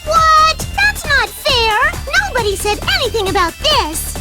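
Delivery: high-pitched outraged objection; shocked, high, indignant outburst; indignant protest. Acted. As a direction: cry foul at the sudden rule change. Racer protests surprise extra round.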